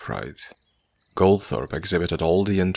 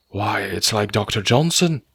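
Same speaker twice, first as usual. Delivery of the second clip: mild eager cry; 3 semitones higher, 3 dB louder than usual. Acted. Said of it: "cried the other, his face glowing".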